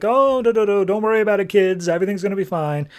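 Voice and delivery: high, sing-song false comfort; fake soothing. Angela calming the frightened kids in a high, falsely sweet voice. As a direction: hush the kids with creepy sweetness. Villain calms kids after shooting.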